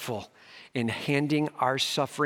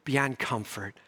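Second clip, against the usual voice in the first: excited Paul; 3 semitones higher than usual. Retold or imitated. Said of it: "Paul's like".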